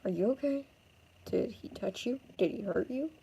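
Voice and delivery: softly asked, concerned questions; gentle concern. Acted. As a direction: check on them softly and carefully. Rescuer checks on shaken girl.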